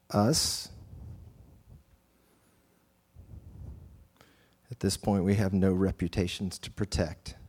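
hushed, reverent guided meditation; guided prayer. Acted. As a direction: ease them into stillness and prayer. Leads breathing and prayer.

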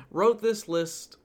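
"wrote" drawn out, slow; stress on wrote. Shown as a demonstration. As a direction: lean hard on "wrote".

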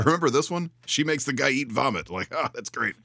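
high gushing fan voice; excited fan. Retold or imitated. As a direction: gush like a giddy horror fan. Acting out a horror fan.

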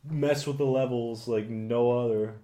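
holding back a cough after choking; talking through a fit of choking; choking on water. Real, not acted. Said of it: "I'm just choking on my water here".

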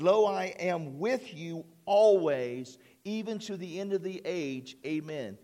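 slow, weighty reading of Jesus' words; slow solemn scripture quote. Retold or imitated. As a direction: let each word of the promise land slowly. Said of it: "Jesus said".

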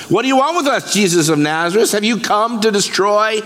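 high-pitched mock cry at ordinary volume; retold demon outcry. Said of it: "screamed in the loudest voice possible".

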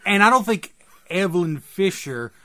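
badly faked English accent; attempted English accent. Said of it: "you try to do an accent".

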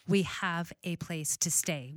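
slow, deliberate mock insistence; measured, firm imitation of wounded pride; retold pride. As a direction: quote her proud correction, word by word. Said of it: "a level of pride".

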